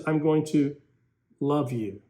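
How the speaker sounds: tender, loving. Shown as a demonstration. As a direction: let love sound gentle.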